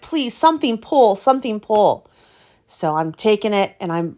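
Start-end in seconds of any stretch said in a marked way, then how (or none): 0.0-2.1 pleading. Retold or imitated. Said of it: "I'm like".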